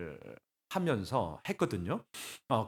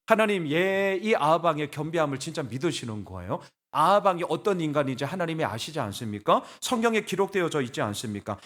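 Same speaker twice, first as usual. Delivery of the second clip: mildly indignant pleading, question after question; retold protest in prayer; arguing with God. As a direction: press God for an explanation. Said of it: "제가 따졌거든요".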